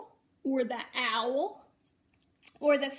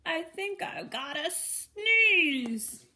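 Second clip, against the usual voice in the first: a slow, slightly higher sick-animal voice; sniffly hog; 4 semitones higher, 5 dB louder, slower than usual. Acted. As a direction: sound like you're about to sneeze. Hog speaks in the story.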